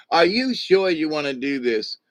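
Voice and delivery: a hint of a Jewish character accent, lightly done. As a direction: lightly imitate the Jewish character's worried question. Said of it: "I had to do this Jewish voice".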